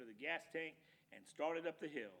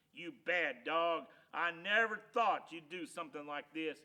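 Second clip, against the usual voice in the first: scolding; 9 dB louder than usual. Acted. Loper scolding his dog over the chicken head, disappointed. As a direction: scold the dog who let you down.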